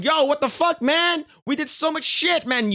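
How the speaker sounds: high, incredulous mock protest; betrayed boyfriend's disbelief; a dumped guy, voice jumping high in disbelief; stunned boyfriend. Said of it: "And I'm like".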